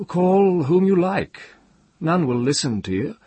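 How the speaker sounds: high, loud, angry retort; slightly shaking anger. A narrator's reading. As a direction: throw it back loudly, pitched high. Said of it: "Jasper's voice shook a little, with anger".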